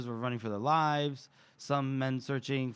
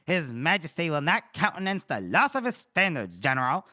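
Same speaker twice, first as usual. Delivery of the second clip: lightly acted pompous officer, raised voice; officious colonel; 5 dB louder than usual. Reader voices Felnick reproaching the general, officious colonel. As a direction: call out a reproach to a superior. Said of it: "we hear in the background".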